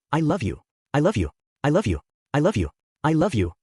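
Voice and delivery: eerie, otherworldly lover's murmur; whispers of the darkness. Acted. The witch's darkness whispering to Subaru, eerie and doting. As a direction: croon it like a shadow that adores him. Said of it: "the whispers of the very darkness itself".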